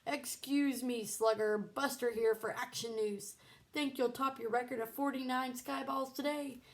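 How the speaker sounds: a kid mimicking a sportscaster; mock reporter. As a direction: play a TV reporter. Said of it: "imaginary microphone in front of his mouth".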